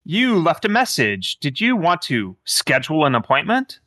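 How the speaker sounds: lilting phone-menu AI voice; sing-song scheduling bot. Acted. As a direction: play a basic automated answering system. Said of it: "very low-level A I that's like".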